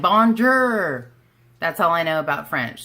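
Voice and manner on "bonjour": bonjour in a hammed-up Okie country twang. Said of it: "I said in a country, Okie twang".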